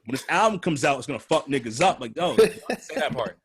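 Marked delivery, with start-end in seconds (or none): 2.0-3.4 mock scolding. Real, not acted. Scolding a rapper's lyric.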